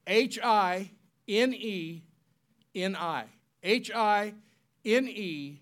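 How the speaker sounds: letter by letter, then the word drawn out slowly; spelled out slowly. Shown as a demonstration. Preacher spelling Hineni for the congregation, slow and clear. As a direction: spell it out slowly for them to write. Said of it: "I want you to write this word down".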